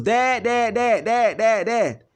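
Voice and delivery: excited reading out. Retold or imitated. Son reads father's call log aloud in disbelief. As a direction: read the repeated word incredulously. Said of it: "all I said was".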